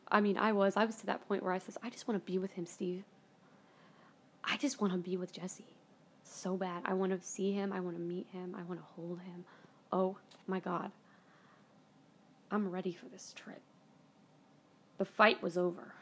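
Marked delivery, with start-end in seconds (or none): 1.8-13.6 soft, fading, near-whispered longing; a hint of tearful begging; hushed pleading. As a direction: plead quietly, worn out from crying. Retold breakdown pleading to friend.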